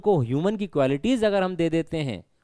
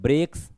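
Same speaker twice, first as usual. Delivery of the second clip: ब्रेक्स with a little extra push; mildly stressed ब्रेक्स; slight stress. Shown as a demonstration. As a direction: lean lightly on ब्रेक्स, rising at the end. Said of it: "थोड़ा जोर लग रहा है बोलने में".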